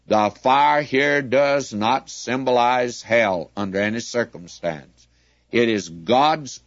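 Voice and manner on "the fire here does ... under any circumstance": each word of "The fire here does not symbolize hell" set down firmly, easing off at "any circumstance"; with great emphasis. Real, not acted. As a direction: lean hard on "fire" and "does not", then let it drop. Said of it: "I want to say it with great emphasis".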